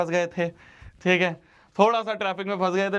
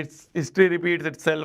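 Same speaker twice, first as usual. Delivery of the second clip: quoting his catchphrase; 3 semitones lower, much slower than usual. Retold or imitated. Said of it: "जो उनका dialogue है".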